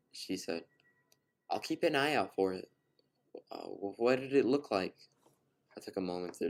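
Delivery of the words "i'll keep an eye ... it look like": put-on a touch higher, friendly young woman; lightly voiced Katie. A narrator's reading. Narrator voicing Katie to the stranger, lightly higher and friendly. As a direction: brightly offer to help, a bit flustered.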